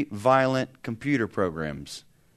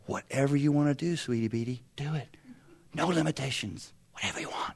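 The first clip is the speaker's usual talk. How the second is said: softer, sing-song indulgent parent; mock indulgent; 5 dB quieter than usual. Parent to teenage daughter, mock sweet and soft. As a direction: coo to the teen, giving in. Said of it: "You just say to her".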